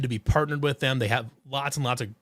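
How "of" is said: burp mid-sentence. Real, not acted. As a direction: talk through a burp. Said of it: "I'm, I'm burping".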